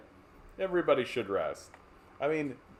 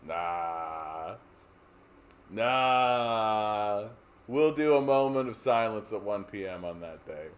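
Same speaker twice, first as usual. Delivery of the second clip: lightly voiced dismissive official; dismissive premier. Premier refusing the holiday, mild dismissive drawl. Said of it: "you come in as the premier and go".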